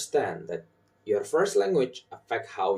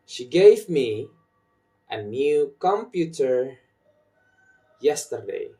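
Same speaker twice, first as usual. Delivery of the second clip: "gave", "new", "computer", "yesterday" stressed; content-word stress; 3 semitones higher, 5 dB louder than usual. Shown as a demonstration. Teacher models sentence rhythm, stressing "gave", "new", "computer", "yesterday". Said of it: "I put my stress in gave".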